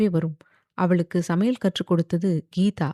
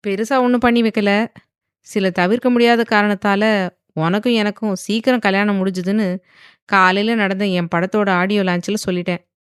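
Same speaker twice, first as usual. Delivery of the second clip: casual; 2 semitones higher, 4 dB louder than usual. Acted. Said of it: "என்று சாதாரணமாக கூறினான்".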